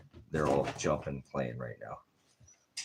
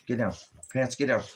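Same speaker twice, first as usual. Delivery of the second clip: firm command; 6 semitones higher than usual. Real, not acted. Owner ordering Pants off the couch, high sharp command. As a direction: bark a command at the dog.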